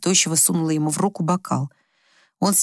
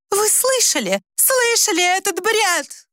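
shriek; 14 semitones higher, slower than usual. A narrator's reading. Wife shrieks to the children in triumph. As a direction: squeal it like proof. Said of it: "взвизгнула Тамарочка".

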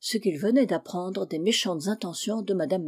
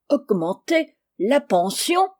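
slow, higher-pitched dismayed question; aghast; 5 semitones higher, 3 dB louder, slower than usual. A narrator's reading. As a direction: stretch it out in alarm. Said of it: "s'écria madame Macmish avec effroi". (question effarée, lente et aiguë)

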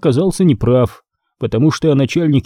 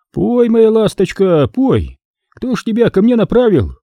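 mocking boss; 9 semitones higher than usual. A narrator's reading. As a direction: toy with the bird.

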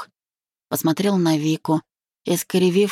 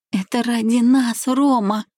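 high, pleading voice, not whispered; tearful murmur; 8 semitones higher than usual. A narrator's reading. Tearful bride appealing to her groom, high pleading. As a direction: plead through tears in a raised pitch. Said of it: "прошептала она".

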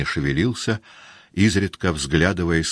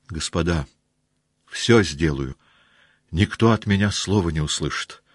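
pleading voice. Acted. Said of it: "умоляющим голосом".

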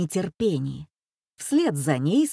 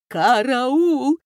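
loud, high cry for help; panicked squeal; 5 semitones higher, 5 dB louder than usual. A narrator's reading. Terrified Коля under the monster, squealing for help. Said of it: "заверещал Коля".

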